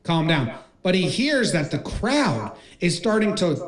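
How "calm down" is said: mild soothing appeal; lightly voiced reassurance; acted calming. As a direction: play a coach settling down a colleague. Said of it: "tries to calm him down".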